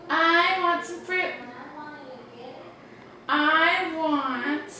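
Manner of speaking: put-on girl bird voice. Girl bird orders food.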